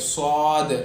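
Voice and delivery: صاد with a whistle-like s; rounded, emphatic صاد; whistling saad. Shown as a demonstration. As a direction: stretch a heavy, whistled صاد. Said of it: "جیسی سویٹی کی آواز آتی ہے".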